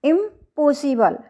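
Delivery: "इम्पॉसिबल" with the weight on "पॉ"; second-syllable stress. Shown as a demonstration. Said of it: "पी ओ एस second stress के ऊपर है". ("इम्पॉसिबल" में "पॉ" पर ज़ोर)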